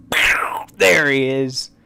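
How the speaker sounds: hushed reveal after the drumroll; breathless whispered unveiling. Acted. Reveal after drum roll.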